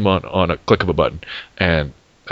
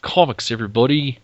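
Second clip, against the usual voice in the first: hammed-up mock British, higher pitched; bad British accent; 5 semitones higher than usual. Teasing a British co-host, bad British accent. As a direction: badly fake a poncy British accent. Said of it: "Is that your British accent?".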